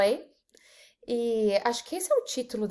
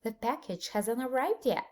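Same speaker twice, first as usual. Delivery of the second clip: softer repeat; 6 dB quieter than usual. Shown as a demonstration. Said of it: "another example".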